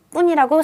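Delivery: tense, hard P at the start of "뿐"; strong consonant. Shown as a demonstration. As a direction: hit "뿐" with a tight, unaspirated double P. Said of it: "세게 읽는지".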